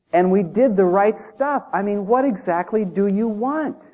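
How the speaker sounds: demanding, wounded churchgoer voice; indignant believers. Retold or imitated. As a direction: act out believers demanding their due. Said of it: "Lord, Lord".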